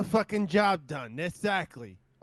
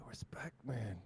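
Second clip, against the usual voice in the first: hushed menacing whisper; 3 semitones lower than usual. Acted. Player's bear whispering respect to Creamy Poo. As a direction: whisper it close to his ear. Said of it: "I whisper".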